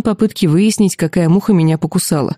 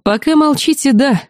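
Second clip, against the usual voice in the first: со смехом; 7 semitones higher than usual. A narrator's reading. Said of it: "вдруг рассмеялся герцог".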